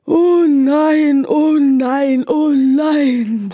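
groaning horse lament. Acted. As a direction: moan it like a worried horse. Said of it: "stöhnte das Pferd". (stöhnend klagendes Pferd)

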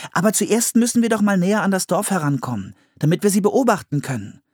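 hohe, schnelle Mädchenstimme; Anne. A narrator's reading. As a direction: Anne drängt eifrig voran. Anne's voice in story. (hohe Kinderstimme, drängelnd)

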